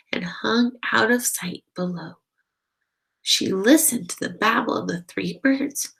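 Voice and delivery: gentle read-aloud storytelling voice; story narration. Acted. Narrator reading a bat story to children, gently. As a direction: read it like a bedtime picture book. Reads picture book aloud.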